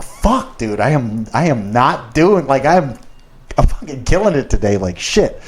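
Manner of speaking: startled high yelp then rushed self-talk; panicked swear. Retold or imitated. Caught vaping by the boss's wife, panicked blurt.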